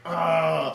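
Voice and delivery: short imitated villain "ah"; a gulped-down-potion cry, played up; mock power-up groan. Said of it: "and he's like".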